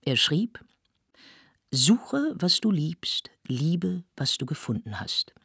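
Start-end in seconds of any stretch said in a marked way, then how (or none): 1.7-5.3 recited motto. A narrator's reading. Admirer writing on a lady's fan, recited motto. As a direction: recite it line by line, with pauses.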